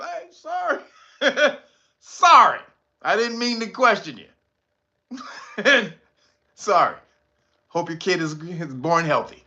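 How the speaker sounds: apologizing to the robot lady through laughter; laughing fake apology. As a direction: apologize while cracking up.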